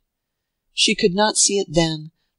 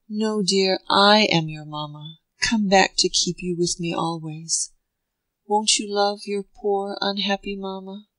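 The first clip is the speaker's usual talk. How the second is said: a hint of a pleading young mother, voice raised a little; tender pleading mother; 2 semitones higher than usual. Mother pleads with her son.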